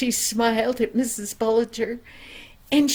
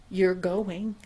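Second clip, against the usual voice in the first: stern father; 4 semitones lower than usual. Acted. Father repeats firmly.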